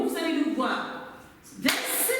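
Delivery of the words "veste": veste broken into "ves - te"; segmented syllables. Shown as a demonstration. Teacher segmenting veste for pupils, in separated syllables. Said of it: "segmenter le mot".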